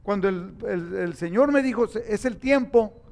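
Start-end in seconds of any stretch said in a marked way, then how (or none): 1.9-3.0 slowly, weighty divine voice; slow solemn call. Retold or imitated. Preacher voicing God's call, slow and solemn. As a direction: give each word its weight.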